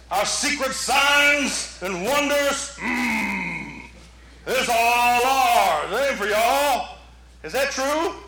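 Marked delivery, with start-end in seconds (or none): 0.1-7.0 slow, drawn-out mock exclusivity; mock possessive insider. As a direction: stretch it out like a jealous keeper of secrets. Mocks possessive, exclusive religious insiders.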